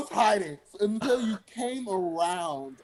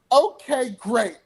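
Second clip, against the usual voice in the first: mimicked catchphrase; 6 semitones higher, 3 dB louder, slower than usual. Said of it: "they would be like".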